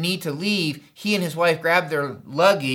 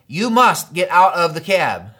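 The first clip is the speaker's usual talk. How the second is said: slow, louder retold demand; insistent; 5 dB louder than usual. Trip leader to pastor in the taxi, slow insistence. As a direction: press each word insistently, hammering it. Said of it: "kept begging and insisting".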